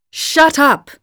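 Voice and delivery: high, loud enraged yell; husband shouting his wife down in rage; furious shout. A narrator's reading. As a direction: snap her silent in fury. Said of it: "he now shouted in intense fury".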